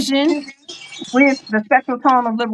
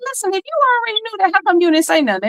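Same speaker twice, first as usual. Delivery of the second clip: mock challenge; 8 semitones higher, much faster than usual. To those who sat watching silently, mock challenge. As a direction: call them out in a higher, hurried voice. Acted complaint to silent finishers.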